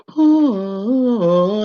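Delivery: hammed-up valley girl exclamation. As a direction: toss off a bratty valley girl oh. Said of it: "and bring out the valley".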